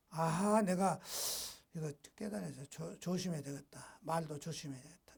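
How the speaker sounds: low, very soft murmur to oneself; hushed, chastened inner voice; quiet self-reflection. Acted. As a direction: drop right down, as if thinking aloud. Voices a repentant inner thought.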